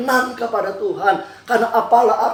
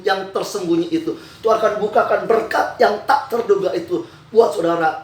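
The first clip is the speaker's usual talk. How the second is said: emphatic preaching. Real, not acted.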